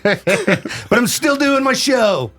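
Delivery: high hammed-up cry of a doomed radio host; mock dying wail. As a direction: wail it in mock agony, dragging the end. Plays bitten DJ dying of rabies.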